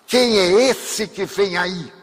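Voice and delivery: retold shout. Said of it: "ela gritou de lá".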